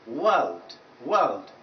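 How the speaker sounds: "world" with a longer, open uh vowel and no r; slightly lengthened vowel. Shown as a demonstration. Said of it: "A bit longer with this".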